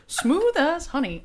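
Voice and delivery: slow smooth sultry purr; sultry ringtone voice. Pretend. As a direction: croon it like a ringtone. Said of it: "I got a new text".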